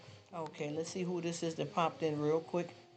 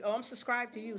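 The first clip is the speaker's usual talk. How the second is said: pitched-up mocking imitation of a viewer; mock viewer reply; 6 semitones higher than usual. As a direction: parrot the clueless commenter, a lot higher.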